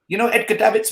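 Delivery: put-on Dutch accent. Manager's brother quizzing a fan about a player, Dutch accent. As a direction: ask it in an imitated Dutch accent. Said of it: "That Dutch accent".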